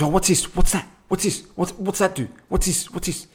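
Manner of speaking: put-on high, eager kid questions; curious child. A little kid pestering parents, high and curious. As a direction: sound like a nosy little kid. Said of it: "when we asking questions".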